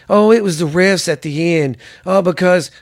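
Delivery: mocking whiny fan. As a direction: mimic a sulking Cowboys fan blaming the refs. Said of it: "and be like".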